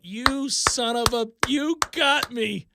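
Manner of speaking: slow, drawn-out reenacted accusation; mock indignation. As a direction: savour each word at the trickster who got you. Reenacting putting the book down, fooled.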